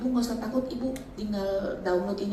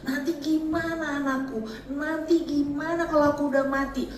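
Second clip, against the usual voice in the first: retold panic; 4 semitones higher than usual. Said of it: "aku takutnya setengah mati".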